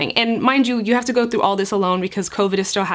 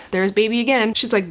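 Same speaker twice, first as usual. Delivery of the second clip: ordinary talk, nothing marked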